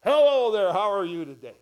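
Jesus greeting the women in everyday talk; casual modern greeting. Acted. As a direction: chirp it like a friendly neighbour. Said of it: "if it was our language that we use today".

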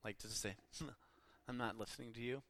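scowling. Retold or imitated. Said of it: "he scowled".

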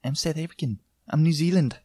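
put-on New Zealand accent. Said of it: "they're very similar".

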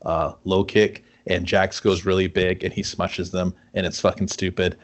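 low, deadpan form-letter reply; lightly voiced corporate thank-you to a fan; mock company letter. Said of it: "I want the letter from Warner Brothers going".

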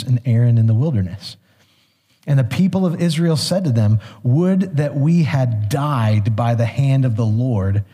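scripture reading. Acted. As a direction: read the passage with weight.

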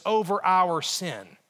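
"our" drawn out and emphasized; slow down and lean on the word "our"; stress on "our". Shown as a demonstration. Preacher driving home whose sin it is, stress on "our". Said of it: "I emphasize the word "our".

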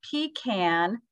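pecan as pee-KAN; pecan with a flat a at the end; pecan, first way. Shown as a demonstration. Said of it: "So you can say".

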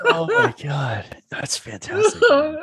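high, breaking up with laughter; real delighted laughter through the words; laughing hard. Real, not acted. Listener reacting to the pot punchline, laughing hard.

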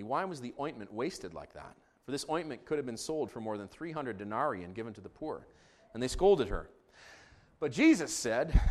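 measured, formal Bible reading; scripture reading. Real, not acted. Pastor reading Mark fourteen to congregation, scripture reading. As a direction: read the narrative out phrase by phrase.

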